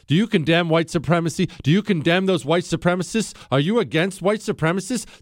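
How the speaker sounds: mimicking an insistent press pack; badgering reporters. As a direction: pester with the same question in rising volleys. Mimics media badgering the president.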